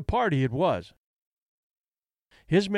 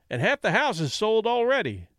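pleading; 6 semitones higher than usual. Acted. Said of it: "Kelly pleaded".

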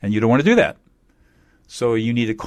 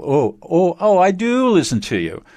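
mock defensive protest, much higher; 8 semitones higher, 4 dB louder than usual. Imitating someone denying they don't listen, mock defensive and high. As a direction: squeak it out like someone who feels accused. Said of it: "the typical emotional invalidation".

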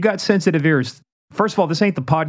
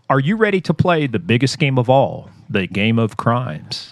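game show host; 4 semitones lower than usual. Acted.

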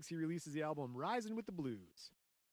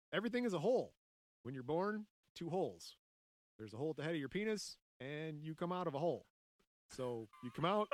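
quoting a musician; 4 dB louder than usual. Retold or imitated. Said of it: "Quote from a musician".

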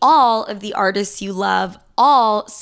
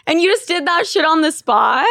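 usual speaking voice

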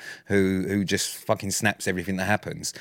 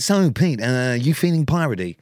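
host radio voice. Retold or imitated. Guest imitates host's nervous on-air question, lightly hammed. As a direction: tease him by copying his on-air greeting. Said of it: "you went".

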